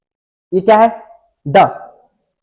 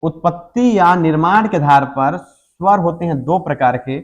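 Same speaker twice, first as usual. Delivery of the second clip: dictation. Shown as a demonstration. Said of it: "dictating notes".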